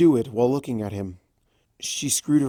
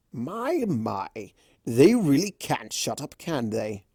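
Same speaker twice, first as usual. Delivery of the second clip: Discord voice; 2 semitones higher than usual. Acted.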